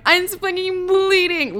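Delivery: high, slow outraged cry; hammed-up indignant yell at the testers; mock outraged yell. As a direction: shriek that you're bleeding, dragging it out. Yelling back at testers.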